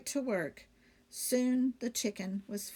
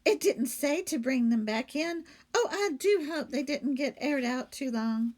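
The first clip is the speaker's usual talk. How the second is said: innocent maid voice; 4 semitones higher, 3 dB louder than usual. Acted. Amelia Bedelia character voice.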